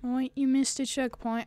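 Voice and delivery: put-on English accent. Player talking to self over a game, English accent. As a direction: lightly mimic an English accent. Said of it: "talking in this English accent".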